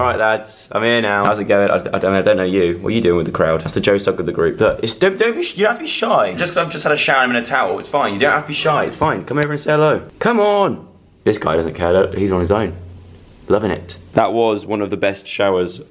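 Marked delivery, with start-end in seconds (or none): 4.9-10.9 coaxing the fish. Acted. Coaxing shy fish to come over.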